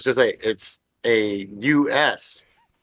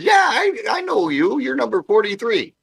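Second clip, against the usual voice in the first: lightly voiced desk clerk; 10 semitones higher than usual. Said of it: "and he goes".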